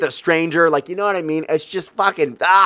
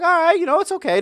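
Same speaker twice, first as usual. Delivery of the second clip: put-on girlish voice; faster than usual. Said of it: "She's like".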